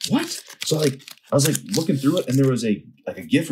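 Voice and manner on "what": shocked what. Retold or imitated. Shocked at mystery gift.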